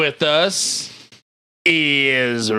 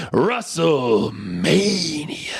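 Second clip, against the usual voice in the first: whisper; much slower than usual. Pretend. Announcing the guest.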